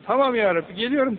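tiz ve yüksek "Tamam, lebbeyk"; coşkulu cevap. Acted. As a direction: davete hevesle karşılık ver. Cemaate cevabı öğretiyor. (Allah'ın davetine coşkuyla icabet eden mümin)

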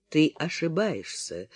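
quiet, muted rumble; low muffled rumble. A narrator's reading. Ash denies Liana's fear, quiet muffled rumble. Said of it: "глухо пророкотал Аш".

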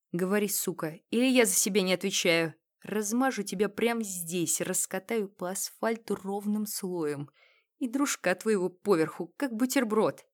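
menacing growl in her face; barked threat. Acted. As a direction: snarl the threat right at her. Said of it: "он рявкнул в лицо Оле".

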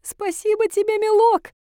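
a frail granny waking up in tears; old granny. A narrator's reading. Granny thanks the reaper. (голос плачущей старушки, высокий и медленный)

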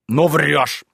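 loud, blunt accusation; shouting. Acted. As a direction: shout him down. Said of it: "закричал опять Ноздрёв".

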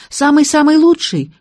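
put-on hopeful childlike girl. A narrator's reading. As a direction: ask eagerly like a small child. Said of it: "по-детски".

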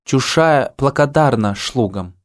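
slow, lisped «Чушая благодарна шлугам»; slushy lisp. Acted. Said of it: "говорить было всё-таки трудно".

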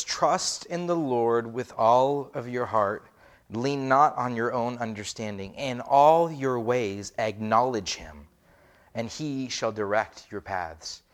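slow, measured reading; solemn scripture read. Acted. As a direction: read the verse with weight. Reads scripture aloud.

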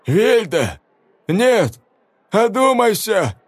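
put-on high, slow desperate old voice; old father crying from the dark; old man calling. A narrator's reading. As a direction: beg her to come to her senses. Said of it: "старческий голос".

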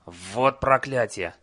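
slow, grumbling curse; cursing. Acted. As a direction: swear it under your breath. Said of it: "выругался он".

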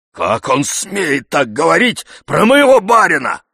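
loud, high indignant retort; heated protest. A narrator's reading. Zakhar defending his master, heated and loud. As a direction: protest hotly. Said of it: "возразил горячо Захар".

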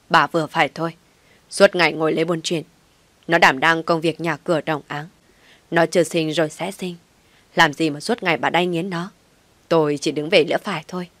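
loud stern scolding; angry husband rebuking wife. Acted. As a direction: lay down the law, loud. Husband scolds wife after slap.

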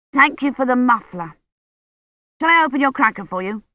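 put-on a kid bubbling over with holiday cheer; lightly voiced eager boy. A narrator's reading. Colin to Mary over the cracker, a lightly voiced eager boy.

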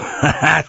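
strained bitter chuckle; grim forced laugh. Acted. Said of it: "с мрачным и натянутым смехом".

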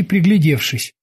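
ordinary delivery, nothing marked

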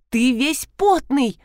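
indignant. Acted. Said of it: "возмутилась жена".

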